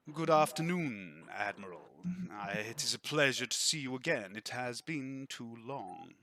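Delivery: lightly voiced, measured old acquaintance; half-smiling visitor. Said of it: "gives a slight sigh and a half smile".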